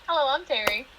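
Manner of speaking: bright, put-on customer service greeting; fake work voice. Real, not acted. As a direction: sound like you're answering at work. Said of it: "my voice sounds so fake, like, when I'm at work".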